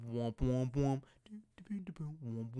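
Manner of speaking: mock thumping bass, wump wump; imitated bass line. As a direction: mimic the neighbors' electronic bass beat. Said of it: "same fucking electronic bass line going".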